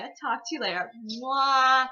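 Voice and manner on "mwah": loud goodbye. Real, not acted. Blowing kiss goodbye to viewers.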